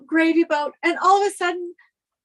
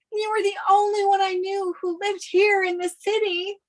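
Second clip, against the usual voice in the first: crying as she blurts it out; tearful outburst. Acted. Runaway bride sobbing to her old friend, crying. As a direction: voice breaking into a sob on the last words. Bride fled wedding, breaks down.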